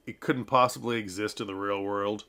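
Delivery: lilting mock German accent; sing-songy German milkmaid. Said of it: "sort of a sing-songy German".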